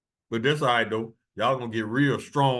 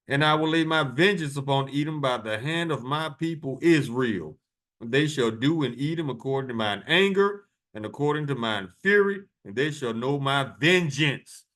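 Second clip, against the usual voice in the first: preaching scripture; 3 semitones higher than usual. Acted. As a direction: proclaim the wrath in the verse. Reads Ezekiel verse, peaks on fury.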